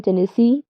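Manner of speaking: Tennessee, light first two syllables, stressed last; stress on SEE. Shown as a demonstration. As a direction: land the stress on the end of Tennessee. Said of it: "unstressed syllables followed by a stressed syllable".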